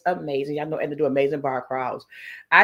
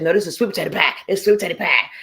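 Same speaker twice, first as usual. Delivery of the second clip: mildly insistent retold correction; imitated quick correction; faster than usual. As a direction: correct them on the spot, lightly acted. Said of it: "she was correcting their ass".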